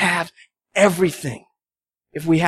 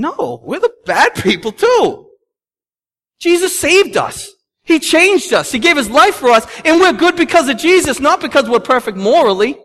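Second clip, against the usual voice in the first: preaching with force; 10 semitones higher, 5 dB louder than usual. Real, not acted. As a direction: proclaim it to the whole room. Preacher's climax on the gospel.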